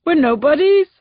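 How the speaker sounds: high, loud cry on nobodies; anguished shout. Acted. Husband shouting at the sergeant, anguished. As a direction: hurl the word at her. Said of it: "before shouting".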